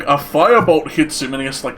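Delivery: ordinary talk, nothing marked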